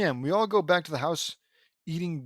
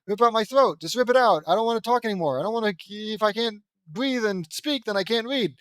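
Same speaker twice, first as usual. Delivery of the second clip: exasperated rant; 5 semitones higher, 3 dB louder than usual. Real, not acted. Reader fed up with the story.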